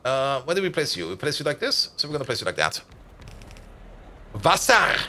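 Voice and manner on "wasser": shouted Wasser. Acted. Calling out German word in game.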